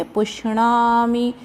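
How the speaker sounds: पुष्णामि drawn out slowly with a clear retroflex णा; careful retroflex ṇā. Shown as a demonstration. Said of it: "णा का उच्चारण अच्छे से करेंगे".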